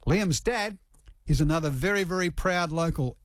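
measured radio news read. Acted. Radio host introduces the boxing story to listeners, news read.

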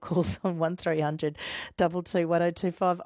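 real chuckle creeping into the phone number; laughing. Real, not acted. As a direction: read the number through a tongue-tied laugh. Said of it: "I'm just laughing".

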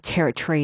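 "territory" with a reduced TUH-ree ending; "territory" with no full TOR sound; preferred pronunciation. Shown as a demonstration. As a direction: say "territory" as TERR-uh-tree. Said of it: "territory is the way".

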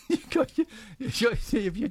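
words breaking up in high giggles; laughing. Real, not acted. Host cueing the newsreader's joke, laughing. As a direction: try to talk through a laughing fit. Host cracks up introducing Harry.

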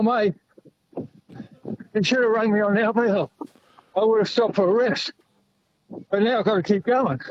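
talking breathlessly while running; puffing between phrases mid-run; out of breath. Real, not acted. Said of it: "you're a bit out of breath".

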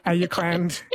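Ayukland with the first vowel broken up, "A-yuk-land"; playfully mangled Ayukland, extra syllable at the start; jokey mispronunciation. Shown as a demonstration. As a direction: say Ayukland as a garbled Auckland. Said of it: "start mispronouncing the English names".

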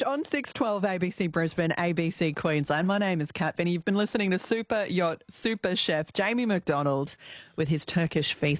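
smooth on-air sign-off; radio presenter. Acted. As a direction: read it like a radio host. Radio host signs off.

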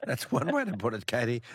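tickled, laughing off a cheeky compliment; amused laughing. Real, not acted. Amused by caller calling him sexy.

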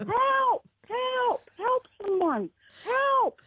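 high-pitched mock cries for help; retold yelling for help. Caller imitating her cries from the stuck lift, mock yelling. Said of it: "I start yelling out".

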